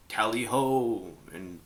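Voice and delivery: loud, pompous rallying cries; mock shouted orders. Captain shouting orders at the crew, mock shout. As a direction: bark out orders like a hammy captain. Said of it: "he decided just to shout orders".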